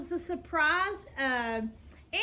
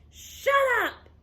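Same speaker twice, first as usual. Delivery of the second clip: high, loud furious scream; 10 semitones higher, 5 dB louder than usual. A narrator's reading. Jeff screams at the teasing girls. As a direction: blast it at her. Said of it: "screamed Jeff".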